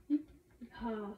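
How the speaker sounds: put-on hee-hee-ha laugh; mock idiotic chuckle. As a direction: imitate a stupid laugh in separate syllables. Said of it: "it's just like a idiot laugh".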